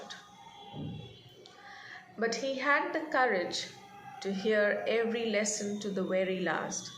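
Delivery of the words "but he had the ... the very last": reading the passage aloud, gently paced; measured read-aloud narration; story reading. A narrator's reading. Teacher reads story passage aloud.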